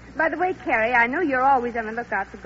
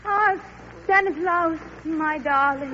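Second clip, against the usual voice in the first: a lovesick jungle woman calling out; hammed-up Tarzan's mate; 5 semitones higher, slower than usual. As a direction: play the jungle lover, over the top. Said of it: "Ann, you be Tarzan's mate".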